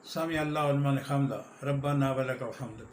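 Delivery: quick, careless Arabic; rushed prayer phrase; hurried recitation. Shown as a demonstration. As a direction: rush through it as people usually do. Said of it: "اس کے بعد".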